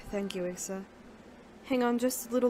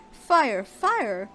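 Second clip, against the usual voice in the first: loud alarmed yell of fleeing researchers; panicked shouting; 6 dB louder than usual. Acted. Panicked researchers shouting a warning, loud alarmed yell. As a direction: shout the warning while running. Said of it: "all shouting the same thing".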